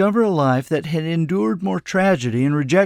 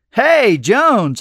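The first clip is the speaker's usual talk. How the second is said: loud, high delighted greeting; excited hail, pitched up; exclaiming; 8 semitones higher, 6 dB louder than usual. A narrator's reading. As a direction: call out eagerly to a friend. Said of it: "I exclaimed".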